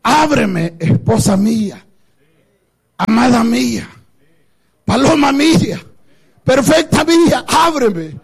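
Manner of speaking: woo her gently, name by name; tender plea. Retold or imitated. The beloved lovingly pleads with his bride to open. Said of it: "con un gran amor".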